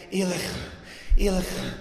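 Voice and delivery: gasping cry. Retold or imitated. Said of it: "like he was saying".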